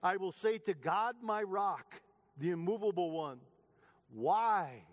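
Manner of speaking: earnest lament read aloud; preacher lending voice to the psalmist; pleading psalm reading. Acted. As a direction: ask God why, aching but steady.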